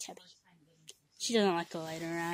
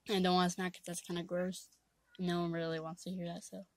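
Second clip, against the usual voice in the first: talking while chewing gum; words around a wad of gum; 4 dB quieter than usual. Real, not acted. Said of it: "talking with gum in my mouth".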